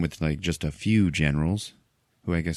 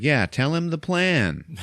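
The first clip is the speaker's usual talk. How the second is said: mock eager; 9 semitones higher, slower than usual. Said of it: "And I was like".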